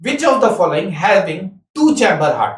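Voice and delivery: exam question read out slowly; slow, clear exam question; slow dictation. Shown as a demonstration. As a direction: dictate each word slowly. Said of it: "तो हम पूछेंगे".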